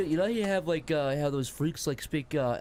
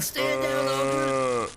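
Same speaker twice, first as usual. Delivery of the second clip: farmer commanding; 3 semitones lower, 4 dB louder, much slower than usual. Acted. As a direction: bark it like a brave farmer. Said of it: "have the farmer say".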